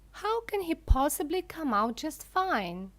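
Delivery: an outraged mother snaps at Mr Wonka; snapped. A narrator's reading. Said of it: "snapped Missus Gloop".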